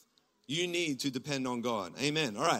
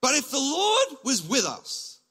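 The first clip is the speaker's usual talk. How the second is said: frustrated Gideon; 9 semitones higher, 7 dB louder, slower than usual. Retold or imitated. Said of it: "he's frustrated".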